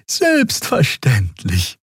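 high, slow, ringing reassurance; overdone friendly Draxül yes; friendly assurance. A narrator's reading. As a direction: promise it brightly in the alien voice. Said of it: "versicherte Xea freundlich".

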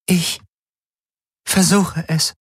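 high voice with halting pauses; alien helix voice. Acted. Alien helix agrees to try, halting otherworldly voice. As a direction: answer as an otherworldly high-pitched being.

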